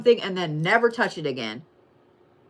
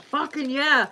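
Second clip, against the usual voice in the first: imitating a pumped fan; 6 semitones higher, slower than usual. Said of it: "every Sagittarius is like".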